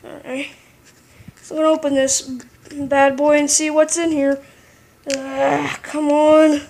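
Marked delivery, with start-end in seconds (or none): 5.1-6.6 strained grunt while prying; straining with effort. Real, not acted. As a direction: push the words out mid-struggle. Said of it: "I'm struggling with the pocket knife".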